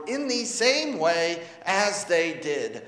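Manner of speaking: slow, separated "as they did"; "as they did" spaced out word by word; stress on "as they did". Real, not acted. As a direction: give "as they did" deliberate weight. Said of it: "Those are the words of emphasis".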